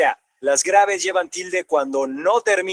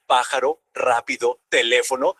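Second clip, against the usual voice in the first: pájaro, rápido, teléfono listed lower, stressed on PÁ, RÁ, LÉ; stress on antepenultimate syllable; 5 semitones lower than usual. Shown as a demonstration. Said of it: "Si la sílaba tónica es la antepenúltima". (pájaro, rápido, teléfono con golpe en la antepenúltima)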